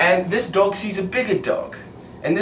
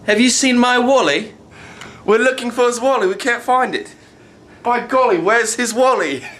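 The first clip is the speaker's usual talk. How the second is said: put-on higher, playful British accent; mock British accent; 4 semitones higher than usual. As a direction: call out in a hammed-up British accent. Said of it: "help him use the accent".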